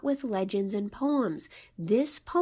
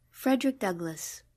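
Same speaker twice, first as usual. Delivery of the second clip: poem reading. Acted. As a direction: read it with reverence, letting it fade. Begins reading the poem again.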